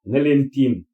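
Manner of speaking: measured declaration in short phrases; formal testament. Real, not acted. Addressing the family with a testament, formal and measured. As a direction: deliver it formally, pausing between phrases.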